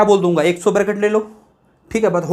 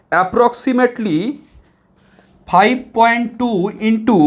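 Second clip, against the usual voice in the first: very slow, deliberate dictation; reading from the book; 3 semitones higher, much slower than usual. Shown as a demonstration. Teacher to students, reading the huge figure very slowly. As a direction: spread each number out slowly. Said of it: "बोल रहा है क्या, देखो सुनो".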